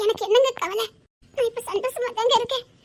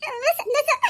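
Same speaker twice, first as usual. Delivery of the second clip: higher, laughing reply; giddy newlywed delight; very happy; 4 semitones higher than usual. Acted. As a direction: laugh with pure happiness. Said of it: "இப்போ சந்தோஷம் தானே".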